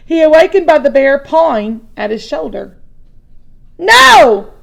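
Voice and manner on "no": high, loud panicked shout. Acted. Boy wakes to a bear and shouts in panic. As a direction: yell it to fight the bear off. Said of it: "Louis shouted".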